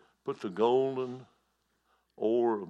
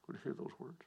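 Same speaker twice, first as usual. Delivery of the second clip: much softer, almost to himself; soft echo; 4 semitones higher, 13 dB quieter than usual. Shown as a demonstration. Preacher repeating his call to the congregation, softly. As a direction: let the repeat sink in, quietly.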